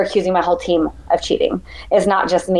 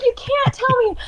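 very high, laughing echo of her words; echoing her protest. Retold or imitated. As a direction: tease her by repeating her plea. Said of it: "And he's like".

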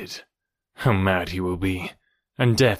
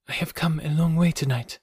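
put-on higher, gentle young woman's voice; man doing a woman's voice; 6 semitones higher than usual. A narrator's reading. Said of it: "she said".

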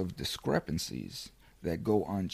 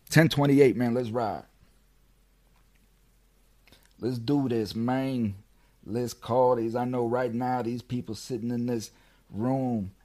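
pumped up; 4 semitones higher, 4 dB louder than usual. Real, not acted. Psyching up before the prison call.

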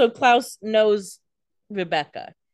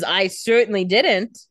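mock indignant; 7 dB louder, slower than usual. Co-host acts Klaus's indignant denial.

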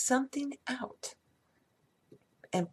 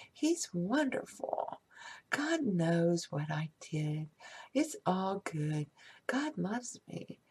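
softer, gentle mantra of love; soft affirmations. Shown as a demonstration. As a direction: murmur it tenderly to yourself. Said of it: "You need to say".

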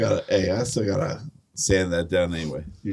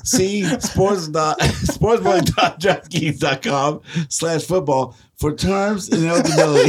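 put-on Southern accent; 6 semitones higher than usual. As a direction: read the fine print in a Southern accent, half-laughing. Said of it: "How'd you turn Southern?".

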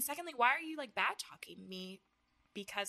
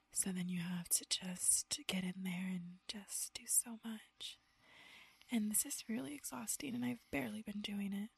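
ASMR whisper; 4 dB quieter than usual. Shown as a demonstration.

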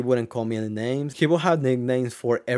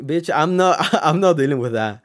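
mock-sassy refusal, higher and louder, breaking into a laugh; retold defiant retort; 4 semitones higher, 5 dB louder than usual. Telling how he had enough of the bully, retold defiant retort. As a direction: push back loudly, half laughing.

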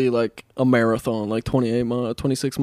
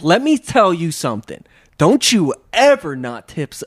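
mock scolding in a light New Orleans accent; a hint of a sassy New Orleans telling-off; 4 semitones higher than usual. New Orleans woman warns the non-tipper, lightly imitated accent. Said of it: "with a nice New Orleans accent".

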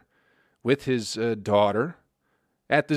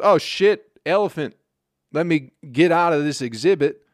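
mock panic; 3 semitones higher, 4 dB louder than usual. Dad panics at charging elephant.

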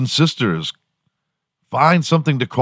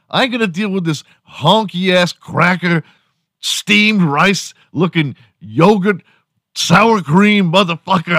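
hammed-up insult in a higher voice; mock black man insult; 10 semitones higher than usual. Imagined black man insulting him in an argument, mock tough voice. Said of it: "and he was like".

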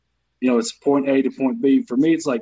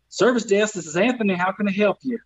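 higher-pitched Southern help desk greeting; Southern accent; 5 semitones higher than usual. Acted. Answering the IT service desk in a Southern accent. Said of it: "anything I say in the southern accent".

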